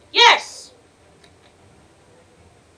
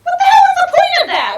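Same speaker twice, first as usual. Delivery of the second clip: laughing shout; 10 semitones higher, faster than usual. Real, not acted. Gamer laughing at a pointless hiding scene, laughing shout.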